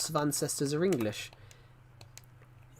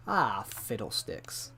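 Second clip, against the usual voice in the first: slow, low, softer mock dismay; mild exasperation; 3 semitones lower, 5 dB quieter, much slower than usual. Shown as a demonstration. Showing the British quote for when things go wrong, mock exasperated. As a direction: sigh it out as a quaint British oath. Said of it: "when anything goes wrong".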